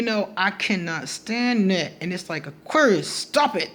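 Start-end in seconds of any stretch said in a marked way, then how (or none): 2.5-3.7 scolding. Acted. Scolding an Aquarius with attitude.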